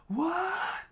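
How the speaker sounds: very high, loud shocked shriek; screaming in horror. A narrator's reading. Pirates watching their captain hit, high loud shriek. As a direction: squeal it out in shock. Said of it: "the pirates could only scream in horror".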